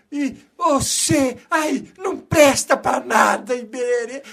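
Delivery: loud, slow scolding of the wife; mock furious husband. Husband scolds wife for not watching the boy, hammed-up rage. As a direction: ham up a drunk husband blowing up. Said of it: "ele levanta uma fera".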